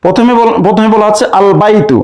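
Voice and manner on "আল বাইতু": "আল বাইতু" with the article's lam audible; lam pronounced. Shown as a demonstration. Teacher showing an Arabic moon-letter word, lam sounded in "আল বাইতু". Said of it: "আলিফ লামের লামটি উচ্চারণ হচ্ছে".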